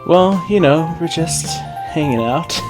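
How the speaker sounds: high, awkward attempt at casual; nervous cover-up. A narrator's reading. Caught selling fireworks, nervously covering up. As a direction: start high and loud, then ease off uneasily. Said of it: "She gave a nervous laugh".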